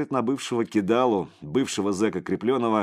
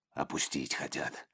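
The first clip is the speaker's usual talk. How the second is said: low, much softer inner voice; flashing thought; 5 semitones lower, 11 dB quieter than usual. A narrator's reading. Мысль Креплёного мелькает тихо, мрачно, про себя. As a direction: think it in a dark undertone. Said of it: "мелькнуло в голове".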